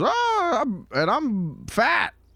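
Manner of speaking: very high, slow, drawn-out big-woman voice. Retelling a movie scene, imitating Eddie Murphy's fat woman voice. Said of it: "pretending to be she".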